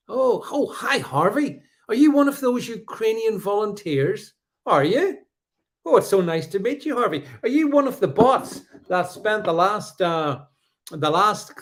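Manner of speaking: mock-sweet and high, dripping sarcasm; sarcastic welcome. Real, not acted. Streamer greeting a hostile commenter with sarcastic sweetness. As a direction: greet him like a long-lost friend you despise.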